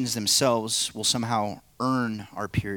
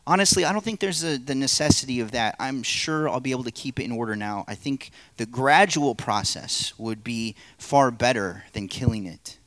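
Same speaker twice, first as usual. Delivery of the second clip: the man, excuses. Acted. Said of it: "play the narrator and three parts".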